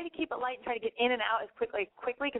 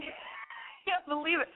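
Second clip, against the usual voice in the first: laughed out through real laughter, slow; cracking up while protesting; laughing disbelief; 6 semitones higher, much slower than usual. Real, not acted. Host laughing at caller's scarf comment, laughing.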